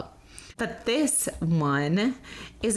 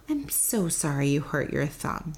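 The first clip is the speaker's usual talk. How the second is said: soft empathy; 3 semitones lower than usual. Shown as a demonstration. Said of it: "to talk calmly, quietly, softly".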